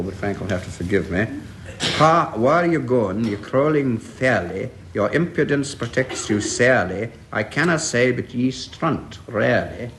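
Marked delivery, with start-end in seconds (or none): 2.0-9.9 a weak attempt at a Scottish accent, slow; reading Burns in a clumsy Scottish accent; bad Scottish accent. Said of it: "I just cannot do this accent at all".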